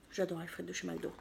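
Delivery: chewing while talking. Real, not acted. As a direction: mouth full of fries. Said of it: "même si j'ai déjà commencé à manger".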